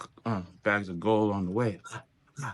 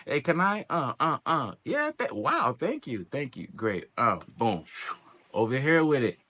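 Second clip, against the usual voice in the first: mock grateful stranger; 3 semitones higher than usual. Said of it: "Throw it on".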